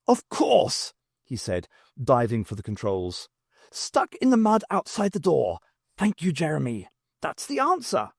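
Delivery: a man who just cracked it; excited. Acted. Doctor thanking Jeremy for the idea, excited.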